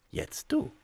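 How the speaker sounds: little devil voice. A narrator's reading. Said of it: "sagte das Teufelchen".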